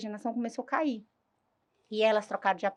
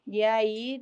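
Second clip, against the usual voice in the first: ordinary talk, nothing marked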